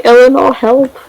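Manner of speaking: mock cry for help. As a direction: imitate a girl calling out for help. Acts Sarah calling for help.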